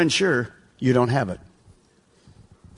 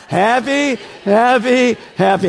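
louder, higher southern crowd chant; southern accent; 6 semitones higher, 4 dB louder, slower than usual. Shown as a demonstration. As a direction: whoop up the catchphrase in a southern accent. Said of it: "we're gonna do it a little different".

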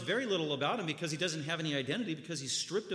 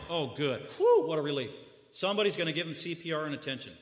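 imagined relief; faster than usual. Retold or imitated. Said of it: "That's probably what the audience was thinking".

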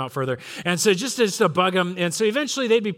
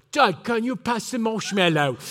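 put-on child putting on an English accent; kids' mock English accent; 3 semitones higher than usual. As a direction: imitate boys aping the English at the campfire. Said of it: "people with an English accent".

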